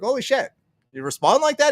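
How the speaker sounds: high-pitched retold disbelief; amazed. Fan emailing Raging Dissident gets an answer, amazed and high. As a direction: react as if floored by the reply, voice jumping up.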